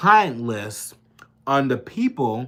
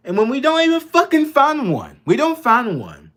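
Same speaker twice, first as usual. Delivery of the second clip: real anger boiling over into a shout; angry outburst; 11 semitones higher, 6 dB louder than usual. Real, not acted. Ranting to viewers about wars, real furious shout. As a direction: pitch jumps way up and gets loud, furious.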